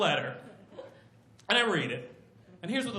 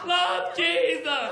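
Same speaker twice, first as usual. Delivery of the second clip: higher, slow, insistent sign-off; needy Jesus; 5 semitones higher, much slower than usual. Acted. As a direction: drag out a pleading letter ending. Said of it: "Letter number two".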